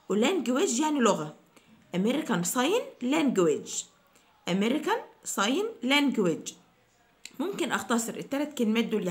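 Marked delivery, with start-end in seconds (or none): 1.9-6.5 American Sign Language drawn out slowly, stress on Sign; slow model. Shown as a demonstration. Teacher repeating the phrase slowly for students. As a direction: spell it out slowly with your voice. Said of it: "teacher models the full phrase".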